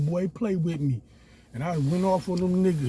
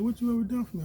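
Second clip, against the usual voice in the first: mocking girlfriend; 7 semitones higher, much faster than usual. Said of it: "She like".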